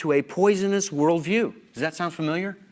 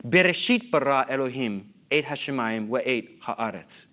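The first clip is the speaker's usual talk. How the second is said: Bereshit carries the emphasis of the whole verse; recited Hebrew with the first word Bereshit stressed. Shown as a demonstration. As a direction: put the weight on Bereshit, then carry on evenly. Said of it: "Where did I put the emphasis?".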